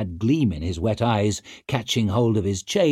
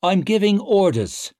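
mock commanding; 10 semitones higher, 4 dB louder than usual. A narrator's reading. Clover mimicking king.

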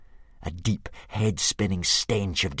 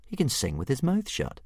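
Hiccup; 7 semitones higher than usual. Acted. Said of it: "thought Hiccup".

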